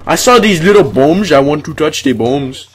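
put-on light Indian accent, rising pitch; playful Indian accent on the bombs. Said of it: "Because I'm doing an Indian accent".

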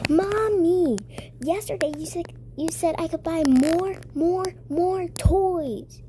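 put-on a kid whining to mom for toys; whiny begging.

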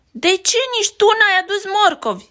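high, loud call; little sister demanding why he came back empty. Acted. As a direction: shout it at her brother. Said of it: "strigă Betty".

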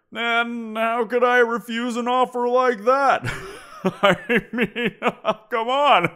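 talking through mocking laughter; laughing. Monster mocking humans who offered a sacrifice, laughing through the words. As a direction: laugh at how absurd the offer was.

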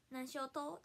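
casual Fukuoka-dialect question. Retold or imitated. Streamer quoting local speech to a Fukuoka fan, Hakata dialect. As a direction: imitate Hakata dialect lightly. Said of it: "福岡弁めっちゃ好きなんや".

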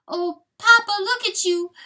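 high, loud fawn wail. A narrator's reading. Little fawn to bleeding Papa, loud high wail. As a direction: wail it out like a distressed child. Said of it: "wailed little Delacour".

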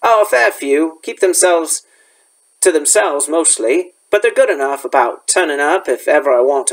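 lightly voiced rustic gamekeeper; a hint of a folksy, dialect-speaking gamekeeper; Hagrid.

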